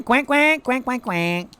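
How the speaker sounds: high-pitched run of playful quacks; excited duck quacking. Pretend. Duck streamer quacking at a new arrival, excited. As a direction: quack like an eager little duck.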